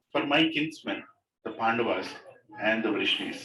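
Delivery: teacher reading a prayer to the class, measured and devout; scripture reading. Acted. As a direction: recite the verse with devotion. Reads the prayer aloud.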